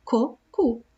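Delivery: "co, cu" with a clear hard K at the start; hard K sound. Shown as a demonstration. Teacher recapping the K sound for the children. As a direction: give the two syllables "co, cu" as clean sound samples. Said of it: "eu uso a letrinha C pra fazer esse som de K".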